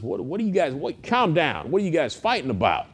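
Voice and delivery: mildly exasperated retold interjection; exasperated intervention. Jesus breaking up heated argument.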